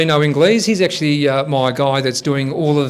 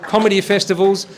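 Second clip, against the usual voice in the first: lively, slightly higher MC delivery; stage host introduction; 4 semitones higher than usual. Acted. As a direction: introduce the comedian to the audience, listing credits. Host introduces guest comedian on stage.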